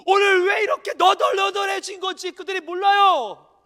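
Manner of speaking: loud pleading cry of Jesus. Acted. Preacher voicing Jesus on the cross, crying out loud. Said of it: "뭐라고 기도하냐면".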